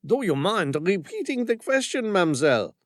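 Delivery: a French commander stalling with politeness; French accent. Acted. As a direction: charm her in a French accent. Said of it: "his heavy French accent".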